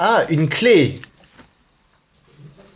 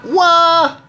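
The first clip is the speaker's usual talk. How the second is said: high loud astonished shout; amazed ouah; 6 dB louder than usual. Real, not acted. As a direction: let out a big wow. Gasp at cutscene.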